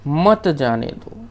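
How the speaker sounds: slow मत जाने दो as one unit; मत joined to जाने दो. Shown as a demonstration. Teacher showing the forbidding meaning, मत grouped with जाने दो. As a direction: run मत straight into जाने दो, slowly. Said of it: "यहाँ पे विराम लग गया".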